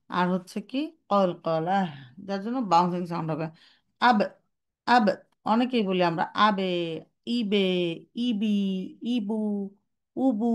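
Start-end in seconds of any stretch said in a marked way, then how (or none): 4.9-10.5 ba sound trailing into a vowel; wrong ba with vowel tail; wrong ba with vowel added. Shown as a demonstration. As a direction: let the ba spill into abe, ibe, ubu. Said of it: "এরকম বলি".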